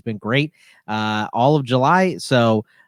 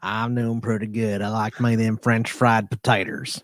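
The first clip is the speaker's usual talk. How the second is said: Billy Bob Thornton; 3 semitones lower, 5 dB quieter than usual. Retold or imitated. Co-host doing Billy Bob Thornton for the hosts, drawled. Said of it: "like he's Billy Bob and".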